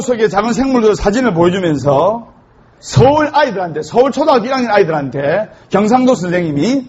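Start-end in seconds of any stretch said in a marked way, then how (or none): none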